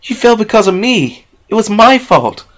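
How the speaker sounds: high, loud, tearful outburst; tearful self-blame. Acted. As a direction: rail at herself through tears. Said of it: "Tears streamed down her face".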